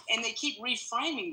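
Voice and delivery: talking mid-workout at the gym; slightly winded between reps; while exercising. Real, not acted. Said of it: "I'm at the gym".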